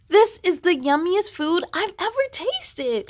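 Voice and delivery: put-on a kid thrilled by a new taste; child gushing over food; delighted child.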